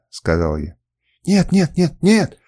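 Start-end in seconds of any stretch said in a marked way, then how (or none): 1.3-2.4 high, loud repeated refusal; desperate no. A narrator's reading. Kernus refusing to fight, high loud panic. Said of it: "отчаянно замотал он головой".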